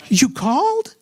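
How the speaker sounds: high rising question with a smile; audible smile. Retold or imitated. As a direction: imitate a pleased, surprised date. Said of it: "I heard a smile in his voice".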